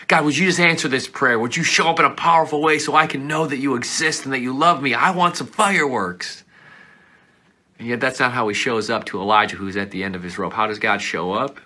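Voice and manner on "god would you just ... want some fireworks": pleading prayer. Retold or imitated. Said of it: "I'm hoping he".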